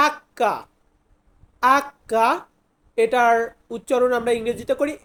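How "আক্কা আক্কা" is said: আক্কা with a doubled, held k; Italian letter name. Shown as a demonstration. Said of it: "এইসকে আমরা বলবো". (Italian উচ্চারণে আক্কা)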